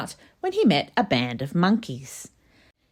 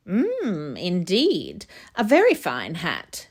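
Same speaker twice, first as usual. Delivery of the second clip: a hint of a haughty giraffe; 2 semitones higher, slower than usual. Giraffe voiced in story.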